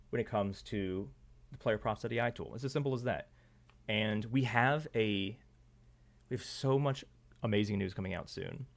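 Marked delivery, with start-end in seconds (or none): 6.3-8.7 hoarse. Real, not acted. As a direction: voice starting to go. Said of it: "I think I'm losing my voice".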